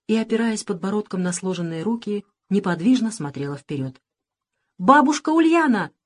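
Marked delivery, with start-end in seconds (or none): 4.8-5.9 loud high call across the ruins; shout. A narrator's reading. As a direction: call out to her from afar. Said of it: "крикнул Саша".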